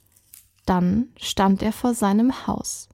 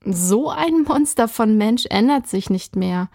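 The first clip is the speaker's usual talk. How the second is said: fervent. Acted. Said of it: "rief die Ärztin voll Inbrunst aus".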